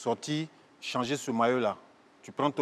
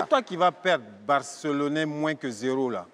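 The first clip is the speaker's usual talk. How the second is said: loud retort. Acted. Answering the Barça fan, louder. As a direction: fire it back hard. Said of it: "repeated retort".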